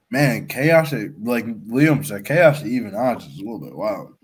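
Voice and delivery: talking through a mouthful of food; words muffled by a bite of cinnamon roll; mouth full. Real, not acted. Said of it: "hard to hear you with food in your mouth".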